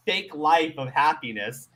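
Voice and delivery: normal talking voice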